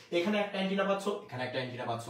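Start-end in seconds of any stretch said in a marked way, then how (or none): 1.1-2.1 soft echo. Shown as a demonstration. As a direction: lower and softer mirrored repeat. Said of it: "এখানেও যা পাচ্ছ, এখানেও তা". (নিচু গলায় আস্তে প্রতিধ্বনি)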